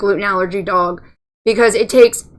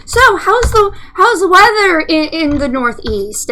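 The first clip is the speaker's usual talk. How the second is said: chatty phone agent; 5 semitones higher than usual. Retold or imitated. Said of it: "I'm like".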